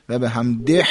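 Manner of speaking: حمده with a harsh, forced "hhh" at the end; exaggerated rasping breath closing حمده; over-pressed final h. Shown as a demonstration. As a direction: press hard on the last ه of حمده. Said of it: "اینجوری هم نشه".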